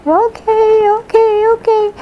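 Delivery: high, quick eager okays. Retold or imitated. Daughter chirping okay to her mother's orders.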